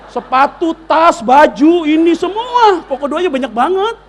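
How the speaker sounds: loud, high-pitched listing; comically overexcited, high and loud; mock excited wish list. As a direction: belt out an imitated wish list. Imitates daughters' long prayer list.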